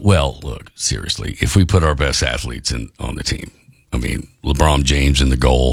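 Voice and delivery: low, smug, bragging voice; obnoxious. Retold or imitated. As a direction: brag like an obnoxious fan. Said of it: "we could do the obnoxious thing".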